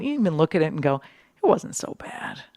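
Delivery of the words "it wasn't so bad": breezy shrug. Retold or imitated. Mock dismissive quote of themselves.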